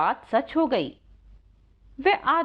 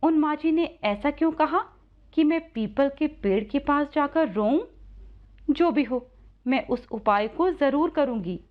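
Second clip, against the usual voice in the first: put-on slightly raised girl's voice; puzzled young Radha; 5 semitones higher than usual. Radha wonders about the advice, lightly raised girl's voice. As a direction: muse as a puzzled, then resolved girl.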